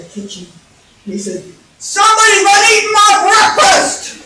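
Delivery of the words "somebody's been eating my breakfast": high, loud bellowing roar; furious acted shout; outraged Papa Bear. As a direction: thunder it as the angry father bear. Papa Bear finds breakfast eaten.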